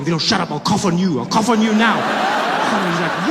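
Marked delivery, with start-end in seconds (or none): 0.0-2.0 mock threat. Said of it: "I was like".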